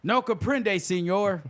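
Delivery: put-on unconvincing Spanish in an American accent; American-accented mock Spanish. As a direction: imitate deliberately ridiculous Spanish, no accent attempted. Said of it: "he would say it like that, sounding like a brother".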